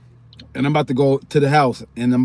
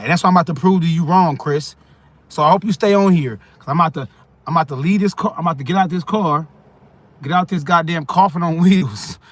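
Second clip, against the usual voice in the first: fired-up; 4 semitones higher, 4 dB louder than usual. Real, not acted. Fired-up rant to Chris.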